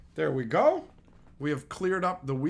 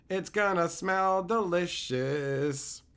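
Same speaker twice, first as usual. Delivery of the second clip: savoring repeat; slower than usual. Shown as a demonstration. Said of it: "but it's gonna smell delicious".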